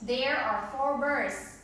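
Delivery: slow and clear, word by word; slow model sentence. Shown as a demonstration. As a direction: correct the child slowly. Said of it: "let me say once again".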